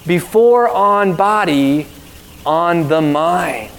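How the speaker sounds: slow, lightly voiced broken English of the tattoo artist; a gentle hint of a tattoo artist's broken English, unhurried. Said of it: "responded in broken English".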